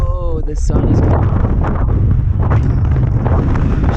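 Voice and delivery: breathless gasps in freezing wind; gasping from cold. Real, not acted. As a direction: gasp through the cold. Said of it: "it's so cold".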